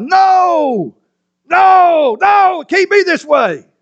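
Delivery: loud, very high, very slow drawn-out cry. Esau learns his brother tricked their father and lets out a loud cry. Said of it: "Esau immediately let out a loud cry".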